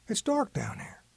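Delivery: whispered excuse. A narrator's reading. Grandpa dodging the request, whispered excuse. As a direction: hush it like a secret.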